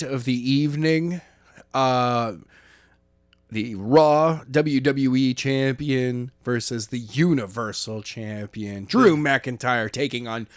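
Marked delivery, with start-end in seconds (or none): 3.5-10.5 announcer voice. Pretend. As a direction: ring announcer hype, stretched names. Announcing the main event.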